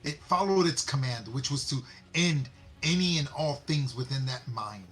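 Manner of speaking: indignant retort. Acted. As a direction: push back against the lecture.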